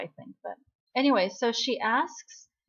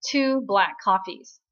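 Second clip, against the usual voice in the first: slow, louder, curt order; bossy ordering at the counter, louder; firm order; 7 dB louder, slower than usual. Retold or imitated. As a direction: lay down the order, no arguing. Jung-won orders for both.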